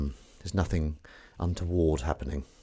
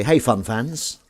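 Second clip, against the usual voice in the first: host greeting; 4 semitones higher, 5 dB louder, slower than usual. Shown as a demonstration. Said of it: "I like to say".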